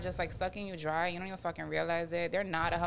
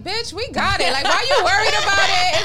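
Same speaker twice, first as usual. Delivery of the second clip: imitating Tony; 10 semitones higher, 12 dB louder than usual. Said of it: "Tony be like".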